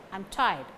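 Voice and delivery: "tired" stressed, "I'm" kept weak. Shown as a demonstration. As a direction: lean only on "tired". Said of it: "Stress falls only on tired".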